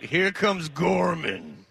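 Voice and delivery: wrestling announcer. Acted. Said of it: "I say it like a wrestling announcer".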